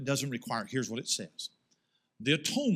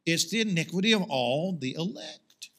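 mock Calvinist; faster than usual. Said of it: "the Calvinist says".

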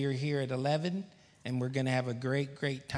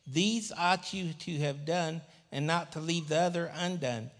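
scripture reading; 3 semitones higher than usual. Acted.

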